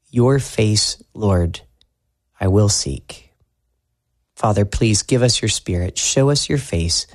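hushed, earnest spoken prayer. Acted. Pastor leading the congregation in prayer, hushed and earnest. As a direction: pray humbly for the whole room.

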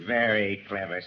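slow, amused villain chuckling through the words; mocking laugh. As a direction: laugh her clever plan off, smugly. Villain laughs at her scheme.

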